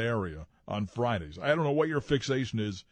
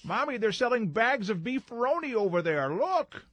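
put-on high, slow child's voice; squeaky little kid calling to mom; 10 semitones higher, slower than usual. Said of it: "this little kid's voice go".

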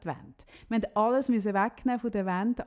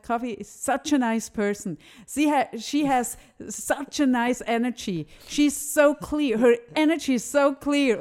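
higher, louder, slow gushing imitation of the cleaner; 3 semitones higher, 6 dB louder, slower than usual. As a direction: gush about her like the upset cleaner. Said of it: "sie hat zu ihm gesagt". (nachgeäffte schwärmende Putzfrau, höher und langsam)

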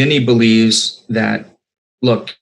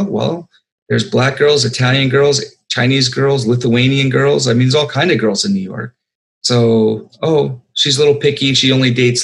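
half-acted, naive and upbeat, pitched up; eager young Vinny; 3 semitones higher than usual. Director voicing his young hero Vinny, lightly pitched up and eager.

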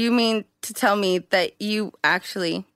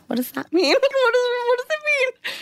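high laughing bewilderment; giggling, baffled and high; laughing confusion; faster than usual. Retold or imitated. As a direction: laugh through the question.

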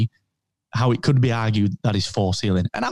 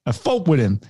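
Christopher Walken impression. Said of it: "Obi-Wan was played by Christopher Walken".

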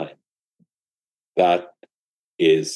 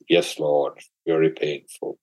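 meek disciple reply; 4 semitones lower than usual. Acted. Disciple answers the Buddha.

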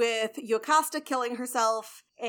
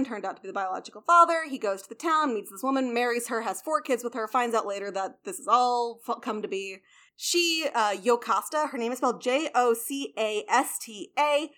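ordinary talk, nothing marked

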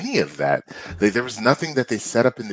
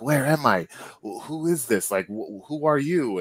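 high-pitched Carnage; 4 semitones higher than usual. Retold or imitated. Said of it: "you hear this high-pitched Carnage voice".

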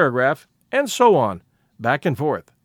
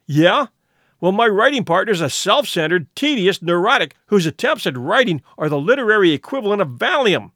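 angry retort; 2 semitones higher than usual. Acted. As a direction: snap back with contempt. Neil fires back at Maria.

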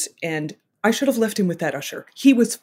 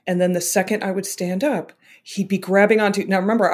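ordinary delivery

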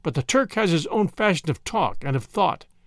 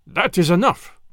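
louder, sharp cut-off of the talk; angry husband silencing the surgeon, a touch louder; angry cry; 4 dB louder than usual. A narrator's reading. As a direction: snap that he has heard enough. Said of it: "the Turk cried angrily".

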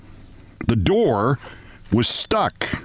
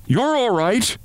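high shout in a changed voice; 8 semitones higher, slower than usual. A narrator's reading. Two voices trading shouts in the dark, high shout. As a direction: shout it back over her. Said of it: "They exchanged shout for shout".

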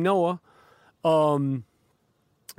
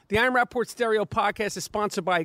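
ad read; 2 semitones higher than usual. Acted. Host reading the Casper sponsor spot, smooth ad read. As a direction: read the mattress ad smooth and easy.

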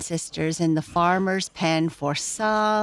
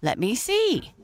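exclaimed; 6 semitones higher than usual. Acted. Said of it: "exclaimed the farmer's wife".

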